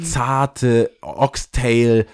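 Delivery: very slow, drawn-out words; tempting food description. Retold or imitated. Someone luring the speaker with food, slow and tempting. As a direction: linger on each word of the dish.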